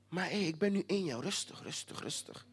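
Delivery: voiceless hush, calming someone down; soothing whisper. Acted. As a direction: whisper it to calm a hothead. God calming the angry listener. (kalmerend gefluisterd)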